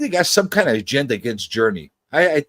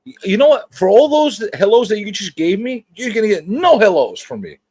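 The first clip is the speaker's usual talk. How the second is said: mock scolding; 6 semitones higher than usual. Mock scolding over too many hellos.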